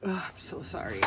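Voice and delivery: yawning through the words. Real, not acted. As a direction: talk mid-yawn. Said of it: "I'm always yawning".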